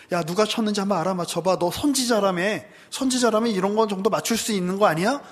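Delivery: sneering guard mocking a blindfolded prisoner; mocking taunt. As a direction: taunt him like a bully. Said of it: "막 조롱합니다".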